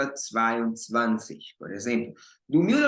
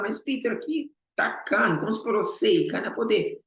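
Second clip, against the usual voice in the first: higher questioning student voice; imitating a student; 7 semitones higher than usual. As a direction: voice a puzzled student objecting. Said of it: "Aí você fala". (imitando um aluno confuso, mais agudo)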